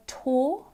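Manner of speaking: "tour" as "taw"; one long vowel in "tour", no r; speaker's own accent. Shown as a demonstration. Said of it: "in my accent".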